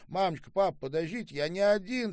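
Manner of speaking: high, loud, agitated appeal; urgent pleading. A narrator's reading. Son to his crying parents, urgently pleading. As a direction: break in urgently on the outcry.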